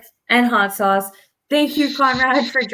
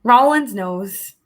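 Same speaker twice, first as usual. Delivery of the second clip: slow drawn out; much slower than usual. Pretend.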